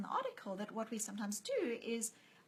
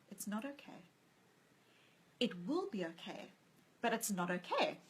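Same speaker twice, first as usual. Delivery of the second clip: compassionate; 5 dB quieter than usual. Retold or imitated. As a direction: kindly correct a worried mother. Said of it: "so compassionately, so kindly".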